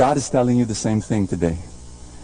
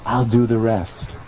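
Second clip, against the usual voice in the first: tender voice of God; 4 semitones lower than usual. Acted. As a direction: promise gently that you've got them. God's voice, low and tender.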